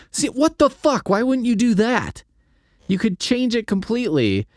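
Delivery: high incredulous cry; exasperated outburst. Real, not acted. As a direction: throw up your hands in disbelief. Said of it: "exasperated rant".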